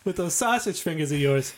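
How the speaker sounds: high mocking carny heckle; hammed-up jester taunt; heckling jester. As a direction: roast him like a jester on a stage. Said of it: "He's like".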